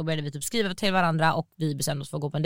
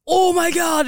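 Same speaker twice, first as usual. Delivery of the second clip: much higher, louder mock shriek of oh my god; mock scream; 11 semitones higher, 5 dB louder, slower than usual. The date shrieks as she rips his childhood artwork down. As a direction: imitate the date shrieking in shock. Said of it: "börjar skrika typ".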